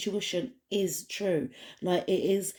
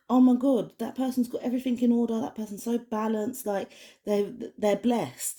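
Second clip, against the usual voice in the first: impressed exclamation; 5 semitones higher than usual. Acted. Onlooker looking at your life, impressed exclamation. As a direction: gush quickly as an amazed onlooker.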